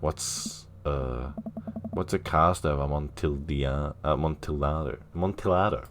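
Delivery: soft, half-whispered question; quietly asking aside. Retold or imitated. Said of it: "whispered to him".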